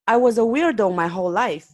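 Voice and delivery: tossed off with a playful, lightly funny voice. Acted. The speaker joking to the owner about being weird, in a lightly funny voice. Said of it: "the speaker answered with a funny voice".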